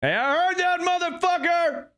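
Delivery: high, indignant character voice cutting in; Nate Nefarious butting in. Acted. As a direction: snap back as the offended sidekick. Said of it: "anything Nate Nefarious could pull off".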